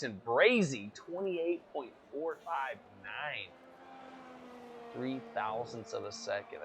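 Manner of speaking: lively sim racing play-by-play; race commentary. Acted. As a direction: call the lap times like a race caster.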